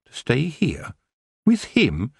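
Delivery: high, alarmed thought; inner panic. A narrator's reading. Tiffany's mind recoiling from the offer, high alarm. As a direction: shriek it inside. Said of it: "her mind shrieked".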